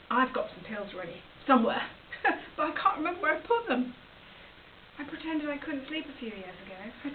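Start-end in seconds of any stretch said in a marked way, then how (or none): 1.9-2.5 short voiceless laugh; small self-mocking laugh. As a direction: puff out a little laugh at yourself. Admits she lost the pills.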